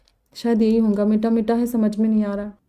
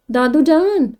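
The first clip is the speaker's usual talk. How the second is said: protesting cry; 4 semitones higher, slower than usual. Acted. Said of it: "मैं एहतजाजन चिल्लाई".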